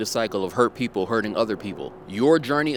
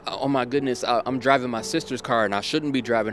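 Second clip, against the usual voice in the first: frantic panic; 3 semitones higher than usual. Retold or imitated. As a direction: play the frantic teenage girl who just crashed. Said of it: "she's so frantic".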